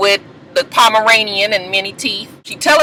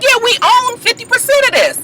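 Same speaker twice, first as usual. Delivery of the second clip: high falsetto wife voice; wife's nervous brightness; 13 semitones higher than usual. Retold or imitated. Recapper voicing the wife announcing ownership, high. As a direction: chirp it out brightly. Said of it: "She's like".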